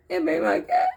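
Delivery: put-on a toddler near tears, pleading; little niece. Child repeats plea again.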